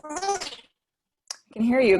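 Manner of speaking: sped-up, squeaky audio glitch; high-pitched helium-like sound; chipmunk voice. Real, not acted. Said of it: "You sound like a chipmunk today".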